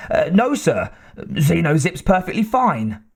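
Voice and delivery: flustered little man caught off guard; nervous stammer. Acted. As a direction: scientist stammering excuses to his angry boss. Wyckoff answers.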